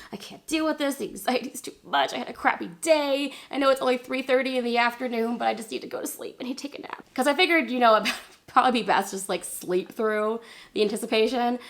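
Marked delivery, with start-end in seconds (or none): 0.1-7.0 higher-pitched mock whine; put-on, worn-out moaning; overwhelmed complaint. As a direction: act fed up and needing a nap. Retold giving up after bad day.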